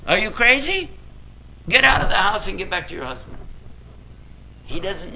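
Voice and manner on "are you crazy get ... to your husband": high, scolding parents' voice, pushing her back home; shocked, nagging old-country parents, much higher. Retold or imitated. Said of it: "And her parents are saying".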